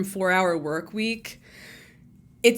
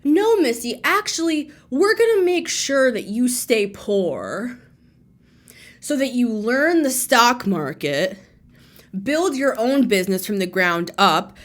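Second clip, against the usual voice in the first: higher, louder scolding voice; voice of the universe; 3 semitones higher, 3 dB louder than usual. Retold or imitated. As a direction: speak down to Missy like a stern cosmic parent. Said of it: "Maybe the universe was like".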